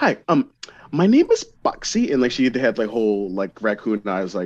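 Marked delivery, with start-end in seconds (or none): 0.0-2.1 put-on very high, squeaky, sing-song, swooping, drawn-out scene-girl voice. Recalling a scene-era YouTube girl and her voice: imitating Boxy's voice. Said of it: "she had this voice, she was like".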